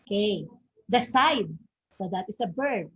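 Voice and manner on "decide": "decide" with a strong "cide"; stress on second syllable. Shown as a demonstration. Teacher giving an example of verb stress, "decide" stressed on "cide". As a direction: lean on the last syllable of "decide". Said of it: "the stress is found in the second syllable".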